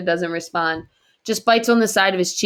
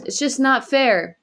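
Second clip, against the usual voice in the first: screamed; 7 semitones higher, slower than usual. A narrator's reading. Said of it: "he screams".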